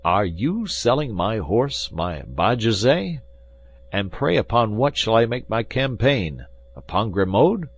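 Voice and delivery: mild aggrieved outrage; indignant. Acted. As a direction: defend his horse Bajazet. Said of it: "cried Athos".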